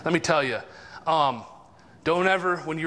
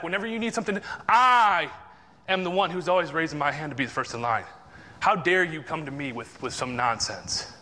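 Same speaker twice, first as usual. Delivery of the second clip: acted pride. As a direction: act out wounded pride listing its merits. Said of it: "and that is pride".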